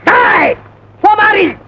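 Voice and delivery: rehearsing a mock threat for the friend. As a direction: bark it like a rowdy. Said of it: "இங்க வா அப்படின்னு".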